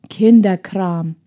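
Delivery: slow, grumpy put-down; surly, scornful boy; dismissive. A narrator's reading. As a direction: draw it out with mild scorn. Surly boy dismisses girl's book.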